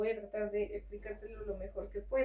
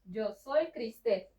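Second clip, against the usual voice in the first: slow demo; 4 dB louder, slower than usual. Shown as a demonstration. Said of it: "repeats the phrase slowly for learner".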